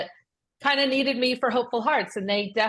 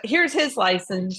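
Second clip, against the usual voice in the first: slow, pointed; slower than usual. Retold or imitated.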